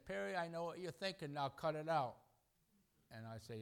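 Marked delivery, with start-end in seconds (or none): 0.1-2.2 a bit higher, lightly scolding; playfully wag a finger in the voice; mock stern Lord. Preacher voicing the Lord scolding him, light mock sternness. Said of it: "Lord, when he says".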